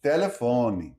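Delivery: telefone ending in a short i; final e as i. Shown as a demonstration. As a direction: end telefone on an ee sound. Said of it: "and like an I at the end".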